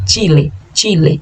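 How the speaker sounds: Chile slowly, sharp tch and a closed e; slow Spanish Chile. Shown as a demonstration. Teacher slowly drilling Spanish Chile. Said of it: "Cha, che, chi".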